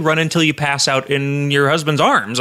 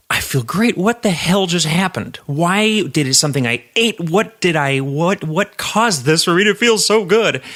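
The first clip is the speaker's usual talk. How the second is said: higher, drawn-out astonished questions; amazed bafflement; 4 semitones higher, slower than usual. Acted. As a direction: marvel in disbelief at feeling good. Acts out sudden baffled elation mid-race.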